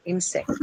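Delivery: "insect" with the weight on IN; stress on first syllable. Shown as a demonstration. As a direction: stress the start of "insect": IN-sect. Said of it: "In, right?".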